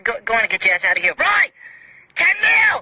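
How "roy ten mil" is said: 1 excited shout. Acted. Winning ten million, shouting.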